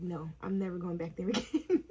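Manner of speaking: amused, laughing refusal. Real, not acted. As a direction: say it through a rising laugh.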